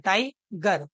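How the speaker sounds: "टाइगर" in two distinct parts, tai-gar; split in syllables. Shown as a demonstration. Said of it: "टाइगर को आप कैसे read करते हैं". ("टाइगर" को दो हिस्सों में बोलते हुए)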